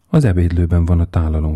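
ordinary delivery

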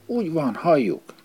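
high, eager cheer of approval; lively agreement. A narrator's reading. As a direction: chime in keenly, pitch jumping up. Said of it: "élénken helyeselt".

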